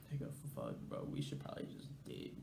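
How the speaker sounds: very soft, half-whispered worry; hushed aside. Retold or imitated. Narrator to his homie about leaving, hushed aside. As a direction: say it under your breath. Muttered aside while standing there.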